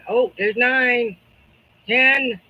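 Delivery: auctioneer. Pretend. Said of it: "I feel like an auctioneer".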